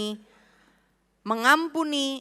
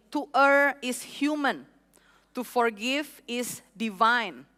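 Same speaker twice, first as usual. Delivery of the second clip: slow, weighty English quote; quoted saying; slower than usual. Retold or imitated. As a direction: let the proverb land. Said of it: "Ada satu quote yang bilang gini". (kutipan dibaca perlahan dan berbobot)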